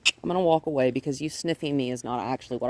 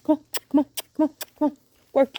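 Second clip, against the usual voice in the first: very high, louder rapid calls; urgent high calls; 11 semitones higher, 6 dB louder, much faster than usual. Real, not acted. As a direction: hurry the dog along. Urging dog to move.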